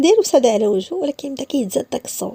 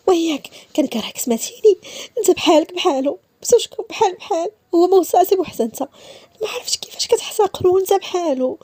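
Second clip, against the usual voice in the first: furious outburst; 8 semitones higher than usual. Acted. Woman screaming at Issa not to touch her, furious. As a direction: throw the hatred in his face.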